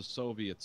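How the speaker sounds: "Soviets" with an open ah first vowel, like SAH-viets; mimicked accent mispronunciation. Friend mimicking an audiobook narrator's odd word, imitated mispronunciation. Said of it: "he always calls the Soviets Soviets".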